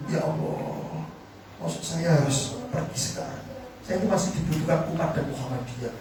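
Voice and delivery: soft, breathy plea to God; desperate whispered prayer. Retold or imitated. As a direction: pray under your breath in despair. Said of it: "saya ingat kata-kata saya gini". (doa berbisik penuh putus asa)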